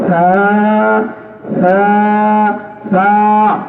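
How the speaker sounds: তা drilled with pauses; teaching recitation. Shown as a demonstration. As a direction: repeat তা for a child. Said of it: "তৃতীয় দিন শিখবে". (শিশুকে তা শেখানো)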